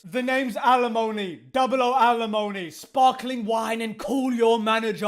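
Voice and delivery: shouty Bond parody; mock Bond intro. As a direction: bark out a spoof spy intro.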